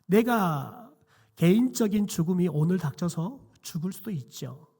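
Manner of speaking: ordinary delivery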